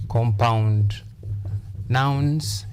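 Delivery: each word set apart by a pause; stress on first part. Shown as a demonstration. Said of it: "That is for compound nouns".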